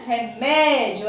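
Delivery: Remédio slowed, weight on the mé; strong syllable stressed. Shown as a demonstration. Teacher repeating for pupils, Remédio with stressed mé. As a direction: lean on the mé in Remédio. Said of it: "a sílaba forte é o mé".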